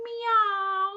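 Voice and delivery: high kitten meow; a sweet playful meow; kitty meow. Shown as a demonstration. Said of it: "Can you go meow".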